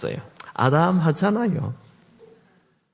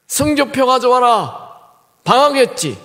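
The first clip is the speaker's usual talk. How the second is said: stern father; 10 semitones higher, 7 dB louder than usual. Retold or imitated. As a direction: bark for the report card like a strict dad. Father demanding report card.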